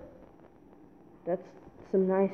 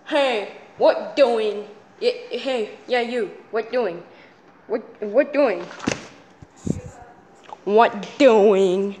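silly character voice; slower than usual. Pretend. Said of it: "here's a voice that people say is good".

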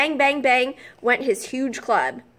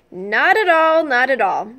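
politely protesting giant; 4 dB louder than usual. Acted. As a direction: insist politely, a little louder. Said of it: "said the giant politely".

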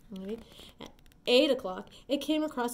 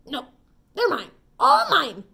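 high, loud grouchy scream; ladybug voice; 5 semitones higher, 11 dB louder than usual. Acted. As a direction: scream it like a greedy little bug. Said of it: "screamed the grouchy ladybug".

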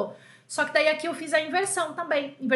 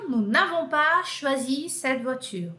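slow model negative; slower than usual. Shown as a demonstration.

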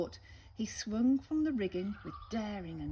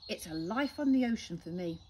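squawking parrot; 4 semitones higher, 3 dB louder than usual. Acted. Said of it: "She squawked".

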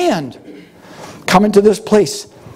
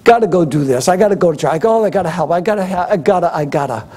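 grumbling whine; 6 semitones lower, faster than usual. Retold or imitated. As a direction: moan like a reluctant helper. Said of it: "Without grumbling".

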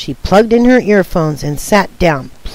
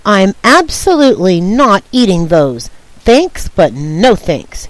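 sneering. Acted.

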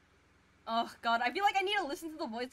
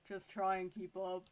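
lightly voiced character line; 5 semitones lower, 6 dB quieter than usual. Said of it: "that wasn't my actual impression".

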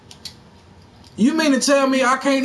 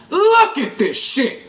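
laughing in disbelief. Real, not acted. Laughs at broken game.

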